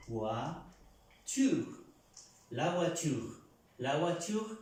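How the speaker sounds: "La voiture" with oi said wa; French model word. Shown as a demonstration. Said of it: "la pronunciamos U A". (modelo: "la voiture" con ua)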